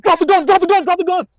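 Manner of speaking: loud, high repeated yell; retold screaming. Officer re-enacts commands at a fleeing man, yelling. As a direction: yell the command over and over urgently. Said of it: "I'm yelling, screaming".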